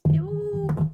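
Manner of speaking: loud, high squeal of delight; excited ooh. Real, not acted. Teacher thrilled as the dreidel spins, loud and high. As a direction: burst out with real excitement.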